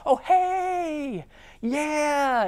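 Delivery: high, sweet phone voice for a client; customer voice. Shown as a demonstration. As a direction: switch to the honeyed customer voice. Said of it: "your voice gets all soft and you have that customer voice".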